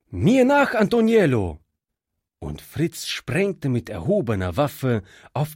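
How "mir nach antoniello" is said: rally your servant as you charge; battle cry. A narrator's reading. Fritz charges the bandits. (Fritz ruft seinem Diener beim Angriff einen hohen, lauten Schlachtruf zu)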